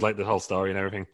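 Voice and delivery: fast, voice fading and cracking; voice giving out. Real, not acted. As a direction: voice going mid-sentence. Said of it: "I'm losing my voice".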